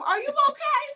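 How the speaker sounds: put-on sweet elderly lady asking what's wrong; imitating grandmother. Late grandmother reassuring her family, high sweet old-lady voice. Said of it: "That sounds just like her".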